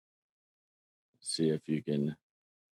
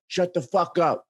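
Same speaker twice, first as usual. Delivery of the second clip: mock answer; 8 semitones higher than usual. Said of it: "And the guy's like".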